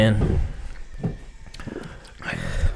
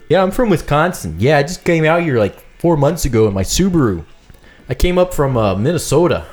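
attempted upper-Midwest Wisconsin accent; 3 semitones higher than usual. Shown as a demonstration. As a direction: introduce yourself in a lightly put-on Wisconsin accent. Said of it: "give me a Wisconsin accent".

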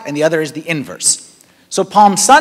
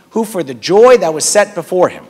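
leading a recitation; 3 dB louder than usual. Shown as a demonstration. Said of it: "Repeat after me".

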